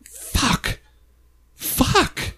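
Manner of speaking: hushed, drawn-out whispered swear; panicked whispered curse. Retold or imitated. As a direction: whisper it to yourself in retold dismay. Caught with pants down backstage.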